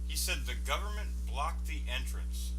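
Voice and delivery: incredulous. Real, not acted. Reacting in disbelief to interview.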